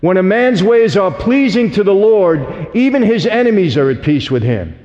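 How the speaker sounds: reads the verse slowly and solemnly, word by word; slow verse reading. Shown as a demonstration. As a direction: let the verse land, slow and deliberate. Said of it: "Proverbs sixteen seven".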